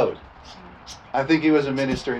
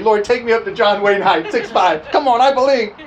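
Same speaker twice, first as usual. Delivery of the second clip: laughing prayer; 4 semitones higher, 4 dB louder than usual. Retold or imitated. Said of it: "I've always prayed".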